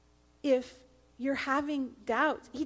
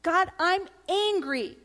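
a touch of mock anger, higher and louder; mock angry; 6 semitones higher, 5 dB louder than usual. David venting to God, a touch of mock anger. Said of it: "he was angry".

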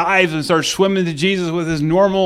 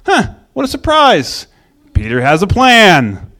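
sarcastic brother; 4 dB louder than usual. Retold or imitated. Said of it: "his brother just kinda laughs and goes".

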